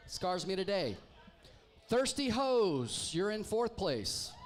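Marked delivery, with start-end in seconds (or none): 1.9-4.3 announcing. Real, not acted. Announcing team to the room.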